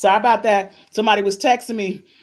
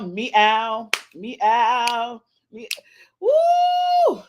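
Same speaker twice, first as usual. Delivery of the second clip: playful meow; 2 semitones higher, much slower than usual. Retold or imitated. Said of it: "but I'm like".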